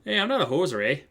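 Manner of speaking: put-on Canadian accent. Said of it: "Canadian accent so bad".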